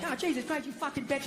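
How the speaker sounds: soft, understated mock swearing; hushed imitation of an outburst; mock cursing. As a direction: toss off a muted pretend curse. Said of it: "I don't, like, go like".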